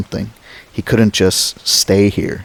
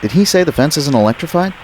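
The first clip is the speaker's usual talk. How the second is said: alarmed question; 7 semitones higher, much faster than usual. Acted. Malcolm alarmed on radio.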